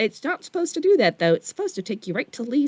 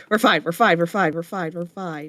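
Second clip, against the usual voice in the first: panicked self-reassurance; 4 semitones lower than usual. Real, not acted. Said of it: "Deep breaths".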